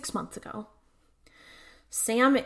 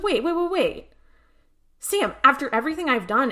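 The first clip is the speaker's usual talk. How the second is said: pleading high wait; 6 semitones higher, 4 dB louder than usual. Retold or imitated. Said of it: "And she's like".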